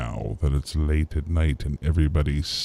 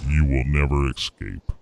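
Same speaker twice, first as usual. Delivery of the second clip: God voice. Pretend. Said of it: "I am God".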